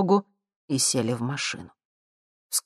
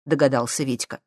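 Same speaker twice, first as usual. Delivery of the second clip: usual speaking voice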